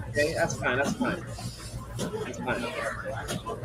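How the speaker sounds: trails off to an unvoiced whisper; fading mutter. Real, not acted. Fighter quietly reassures himself watching the replay, fading mutter. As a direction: say it to yourself, letting it go.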